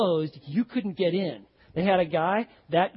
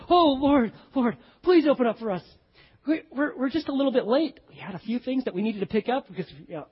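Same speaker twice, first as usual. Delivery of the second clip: pleading; 4 semitones higher than usual. Acted. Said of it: "You just hear the passion in their voice".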